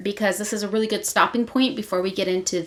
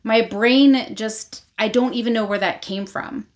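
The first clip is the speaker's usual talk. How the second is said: higher, louder flustered denial; retold exasperated protest; 3 semitones higher, 4 dB louder than usual. Rave to Vea, tired and hungry, exasperated.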